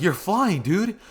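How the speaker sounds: high-pitched astonished exclamation; mock amazement. Classmates see Deku fly, mock amazement.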